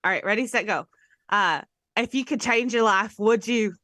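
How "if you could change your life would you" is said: lightly attempted Scottish, slipping into Australian; botched Scottish accent. Host warming up with a movie line, botched Scottish accent. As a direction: try for Scottish and land near Australian. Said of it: "No, that was Australian".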